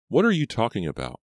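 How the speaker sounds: high-pitched baffled question. A narrator's reading. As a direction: ask it in bewilderment.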